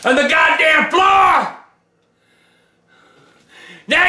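furious yelling rant; angry shouting. Acted. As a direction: bellow it in outrage. Furious rant at pasta brand.

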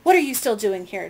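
loud, angry demand. Acted. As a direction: bark the question at them. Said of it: "demanded the round man".

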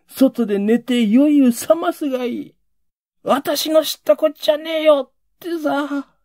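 loud, high scolding tirade from the mother; mock shrill scolding. Mother cursing her drunk husband shut outside, loud mock scolding. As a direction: rail at him with contempt. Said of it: "それからわめき出すんだ。".

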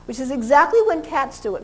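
ordinary delivery

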